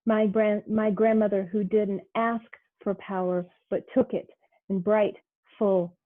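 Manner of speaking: measured recital with pauses between images; poetry reading. Acted. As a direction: read it like a performed poem, savoring each phrase. Poem read aloud.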